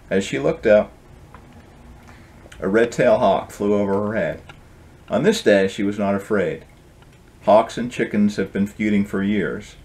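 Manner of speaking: gentle storybook reading voice; story narration. A narrator's reading. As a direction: read it like a bedtime tale. Author reads his book aloud.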